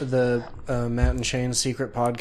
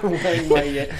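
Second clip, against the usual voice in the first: laughing; 3 semitones higher, slower than usual. Real, not acted. Joining the Wang joke, laughing.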